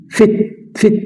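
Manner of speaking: "فت" said short and quick; short quick vowel. Shown as a demonstration. Teacher showing the quick short i, "فت" kept short. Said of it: "سريعة شوية".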